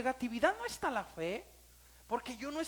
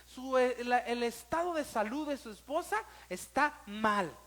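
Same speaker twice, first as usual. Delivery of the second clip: doctor's grave news; 3 dB louder than usual. Retold or imitated. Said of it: "así me lo decía".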